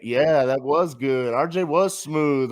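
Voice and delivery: slow, smooth radio host; late night DJ voice. Retold or imitated. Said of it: "cool late night, sexy D J voice".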